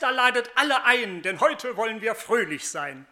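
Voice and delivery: a father shouting for a feast, building; joyful calling out. Acted. Father calling servants to prepare a feast, building to a jubilant shout. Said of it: "rief er dann".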